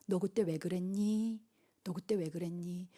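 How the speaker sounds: low, soft, slow repeated question; God's questioning. Acted. God pressing the question at judgment, hushed and low. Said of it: "하나님 물으실 때".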